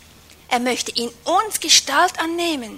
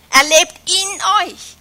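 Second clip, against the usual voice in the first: slow, with in raised and loud; stress on in; 6 semitones higher, 7 dB louder, slower than usual. Shown as a demonstration. Preacher to congregation, emphasising in. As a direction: press the word in, draw the line out. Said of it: "Oder die Betonung auf in".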